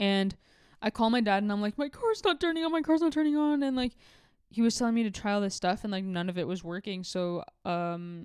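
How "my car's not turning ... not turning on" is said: put-on panicked voice, higher. Retelling calling dad when the car would not start: retelling own panicked call. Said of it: "freaking the fuck out".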